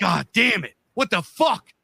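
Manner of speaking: high-pitched retold exasperation; pissed off. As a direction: imitate sore losers, voice shooting up. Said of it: "They were, like, pissed".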